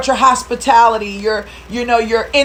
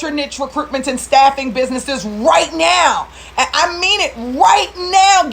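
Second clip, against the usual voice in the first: fired up; 3 semitones higher than usual. Real, not acted. Speaker rallies staffing owners during pandemic, fired-up cry. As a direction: pump them up, voice climbing. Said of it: "I just got so fired up".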